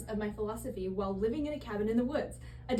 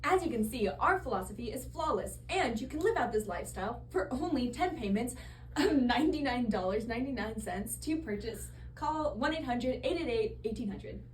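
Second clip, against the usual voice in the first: hard sell ad. Acted. Infomercial sales pitch.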